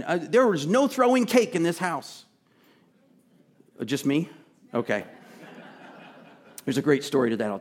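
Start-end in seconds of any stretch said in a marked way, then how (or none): 0.2-2.2 stern mom. Retold or imitated. Preacher voicing his mom's house rule, hammed-up stern. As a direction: lay down the law like a mom. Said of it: "another one".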